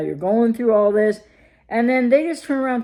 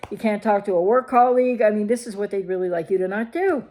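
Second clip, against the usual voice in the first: ordinary delivery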